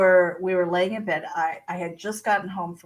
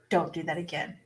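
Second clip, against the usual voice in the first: sleepy warning; 4 semitones lower, 8 dB quieter than usual. Retold or imitated. Retells sleepy warning to husband.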